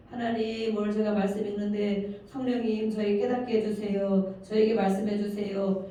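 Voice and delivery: modelled prayer on an even, steady pitch; demonstrated prayer. Acted. Pastor shows believers how to pray before reading, praying evenly. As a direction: pray it earnestly, as an example for listeners.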